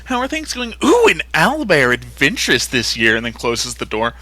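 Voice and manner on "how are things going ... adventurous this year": innocent dean. Retold or imitated. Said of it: "The dean would ... be like".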